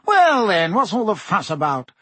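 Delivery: Fudge laughing the question off; a bright laugh through the words. A narrator's reading. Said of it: "laughed Fudge".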